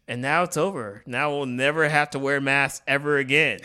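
dry sarcastic cheer. Acted. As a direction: say it with fake positivity. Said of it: "sarcasm in your voice".

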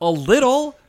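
high and loud, hammed-up sob voice; high loud fake crying; mock tearful answer. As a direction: squeak it out like fake weeping.

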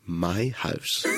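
drawn-out put-on old man voice; hard-of-hearing old man. Prank caller to taxi operator, as an oblivious old man. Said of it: "pretend to be an old man who couldn't hear".

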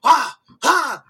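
high, loud whooping cheers; excited whoops. Retold or imitated. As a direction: whoop like a thrilled fan. Watching a knife fight excitedly.

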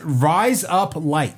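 very slow mock-Aussie demonstration; Australian accent. Shown as a demonstration. Teaching the trick phrase to a friend, slow Australian accent. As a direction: sound it out slowly in Australian. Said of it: "you actually have to say".

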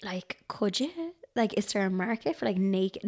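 unvoiced, hushed aside; whisper. Real, not acted. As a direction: whisper it conspiratorially. Confiding a naughty idea.

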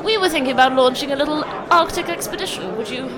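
quick, plummy officer asking a favour; lightly voiced pompous admiral; posh admiral voice. Mock Admiralty asking Sir James.

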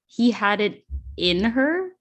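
"he had it in her" with the weight on "her"; stress on her. Shown as a demonstration. Reading the book line aloud, stress on "her". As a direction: lean on "her", not "in". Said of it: "the emphasis should be on the word her and not in".

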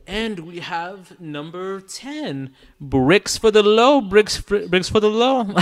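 heavy reverb on the voice; like calling out in a big empty hall; big hall echo. Real, not acted. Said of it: "the reverb".

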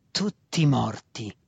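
very slow, menacing growl; snarling. A narrator's reading. Faceless master driving the cruel news home, snarling. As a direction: growl it out, dragging both words. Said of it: "ringhiò ancora una volta".

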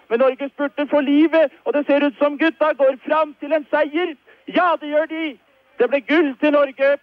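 rising, excited sports commentary; frantic race commentary. Real, not acted. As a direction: call the finish like a live race. 1968 Olympic kayak race commentary.

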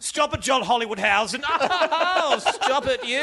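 camp, laughing mock scold; playfully tease, laughing; gentle teasing. Camp banter between voices.

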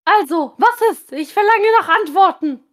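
mild, pushy impatience; impatient grumbling. Acted. Aunt nagging Julian about a wife, mildly grumbling and impatient. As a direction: demand answers in a lightly grumbling tone. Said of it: "motzte sie ungeduldig herum".

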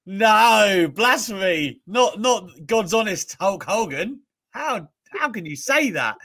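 high, hammed-up indignation; mock outrage. Pretending to defend Hulk Hogan, high hammed-up indignation. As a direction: play the offended believer.

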